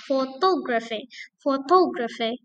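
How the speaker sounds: Photography, TO stressed. Shown as a demonstration. Teacher drilling photography stress on TO. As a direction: lean on TO. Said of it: "to is third syllable".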